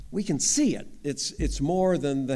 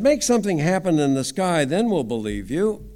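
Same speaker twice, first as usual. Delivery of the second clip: demanding crowd; 4 semitones higher, 7 dB louder than usual. Acted.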